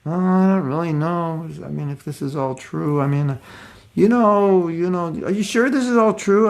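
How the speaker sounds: a touch of a hesitant doubter, rambling; lightly acted waffling doubter; doubting mode of ignorance. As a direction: voice mild skepticism, hedging and trailing off. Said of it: "you get the mode of ignorance speaking".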